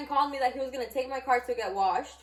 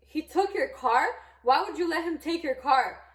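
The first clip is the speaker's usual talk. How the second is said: higher-pitched incredulous friend; imitated disbelief; 4 semitones higher, 4 dB louder than usual. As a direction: act out a friend's astonished questioning. Friend reacts in disbelief, retold.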